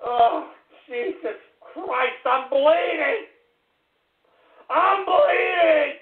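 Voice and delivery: slow anguished moan rising to a cry; drawn-out wail. Acted. Host moaning to listeners that he is bleeding. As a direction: moan it out in pain.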